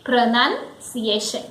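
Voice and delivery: PRONUNCIATION in parts, pruh-NUN, see-AY-shun; correct pronunciation. Shown as a demonstration. Teacher repeating the word for learners, correct pronunciation. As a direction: model PRONUNCIATION with "nun" in the middle. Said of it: "So it is pronunciation".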